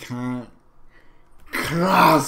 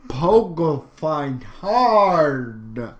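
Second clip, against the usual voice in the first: stoner voice. Pretend. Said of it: "I don't have a good stoner voice".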